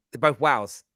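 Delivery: "wows" for both wows and whales, no difference. Shown as a demonstration. Host admitting both words sound alike, "wows" for whales. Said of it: "I don't say wha-, I go".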